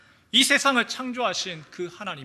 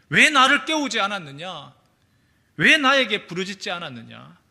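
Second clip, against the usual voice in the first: stern reproach, a bit louder; rebuking Jesus; 5 dB louder than usual. Acted. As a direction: scold the disciples firmly. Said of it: "꾸짖으셨어요".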